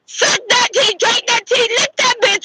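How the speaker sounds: mock-sweet jeering taunt. Real, not acted. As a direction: needle them from up high. Taunting ranted list.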